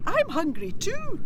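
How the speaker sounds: high, eerie kelpie voice; sing-song threat from a monster; hungry kelpie. Acted.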